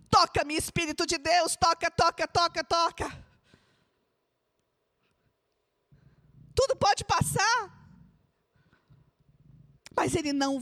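high, loud pleading preacher voice; preaching at full force. Acted. Preacher leading viewers to pray in their room, impassioned. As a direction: cry out the prayer as if leading the whole church.

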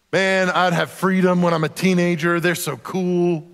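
imitating an envious child, slowing on the last words; mock longing. Preacher voices a child envying teenagers, mock longing. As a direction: daydream aloud like a kid idolizing older ones.

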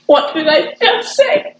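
slow, laughing through the words; laughing disbelief. Retold or imitated. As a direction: wail it out half laughing, half crying. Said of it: "I'm like".

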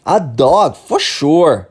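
"A dog, for sure" with a confident fall on sure; falling intonation. Shown as a demonstration. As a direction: land firmly on "for sure", falling. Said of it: "tem toda uma entonação aqui".

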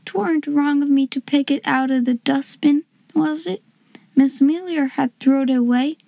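unsure, earnest confession in dialect; shy servant girl, doubtful. Acted. Servant girl owning up about the card, doubtful.

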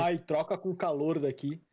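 slow, whiny mock complaint; whiny follower. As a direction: mimic a jealous follower. (seguidor reclamando, arrastado e chorão)

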